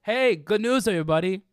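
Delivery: high, loud, slow announcement in an odd flat voice; Tommy Wiseau impression. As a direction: blurt the news out of nowhere, drawn out. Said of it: "I wish I could recreate. That delivery is great".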